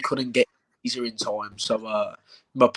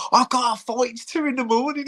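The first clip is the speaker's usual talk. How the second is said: put-on raised pitch, pleading with a drunk mate; a bit high and pressing; urgent retold plea; 11 semitones higher than usual. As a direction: friend at two in the morning, lightly voiced urgent plea. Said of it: "I've gone".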